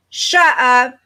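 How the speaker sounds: can't believe what she just read; surprised disbelief. Real, not acted. Reacting to a surprising comment.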